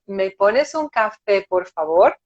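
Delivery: slow, courteous asking; polite request. Acted. Customer asking for a coffee in a bar, politely. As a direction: ask courteously, unhurried, ending on a rise. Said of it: "Você vai chegar desse jeito".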